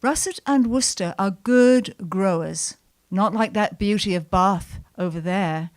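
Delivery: a light Kentish country drawl. Retold or imitated. Great-uncle showing his apple trees to a child, in a light Kentish drawl. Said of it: "he said in his Kentish drawl".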